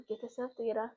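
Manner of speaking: quiet, low-key mantra to oneself; urgent self-talk. Retold or imitated. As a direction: repeat it softly under your breath, like steadying yourself. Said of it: "to myself".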